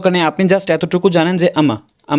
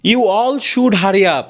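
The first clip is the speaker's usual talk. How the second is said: stiff Indian English, slow, each word separate; mock Indian English, broken into pieces; Indian English accent; 3 semitones higher, much slower than usual. Shown as a demonstration. Teacher mocking the Indian way: slow Indian English. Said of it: "ইন্ডিয়ানরা বলবে".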